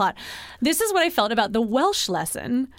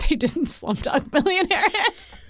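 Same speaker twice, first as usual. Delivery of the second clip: mock realization; 7 semitones higher than usual. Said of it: "and you're like".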